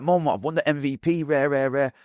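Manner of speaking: bursting with pride, voice up high; a buzzing boy showing off his award; excited kid. Retold or imitated. Kid telling mum about MVP.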